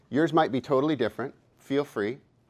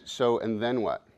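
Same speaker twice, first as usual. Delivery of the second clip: "So, and then what" asked slowly; slow questioning; slower than usual. Shown as a demonstration. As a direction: draw out "So, and then what" calmly. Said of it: "this is a voice you can use with doubt".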